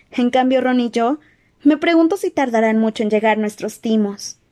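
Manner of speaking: put-on worried girl, earnest and gentle; Hermione voice.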